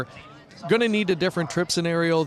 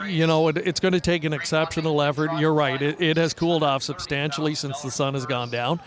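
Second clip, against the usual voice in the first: teeth chattering. Real, not acted. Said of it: "it may sound like I'm getting a little bit tongue-tied. My teeth are chattering".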